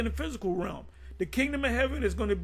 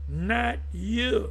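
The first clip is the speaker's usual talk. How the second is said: light breathless gossip, lingering rise; Lewis Gossip voice. Pretend. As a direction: gossip it with a rising lilt. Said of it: "In my Lewis Gossip voice".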